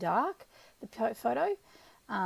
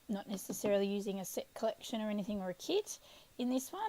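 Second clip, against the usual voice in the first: ordinary talk, nothing marked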